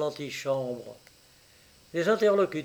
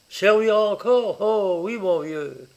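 higher, louder burst easing off; emphatic conviction; 5 semitones higher, 5 dB louder than usual. A narrator's reading. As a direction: answer a pal with emphatic conviction. Inspector answers emphatically.

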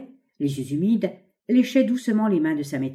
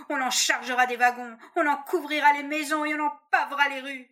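faint distant voice; 8 semitones higher, 3 dB quieter than usual. A narrator's reading. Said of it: "voix lointaine et faible comme un souffle".

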